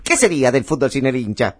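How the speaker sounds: imitation of old Argentine movie patter; mannered old-cinema rhetoric; old film tone, quick. Shown as a demonstration. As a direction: deliver it like a vintage film monologue. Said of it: "Así rapidito".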